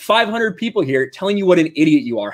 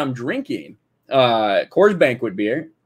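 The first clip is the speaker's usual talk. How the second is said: ordinary talk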